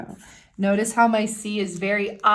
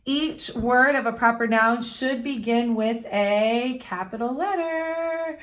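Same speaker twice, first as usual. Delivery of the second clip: teacher reading from the book; reading the rule aloud; 2 semitones higher than usual. Shown as a demonstration. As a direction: read the rule to young students. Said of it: "And it says".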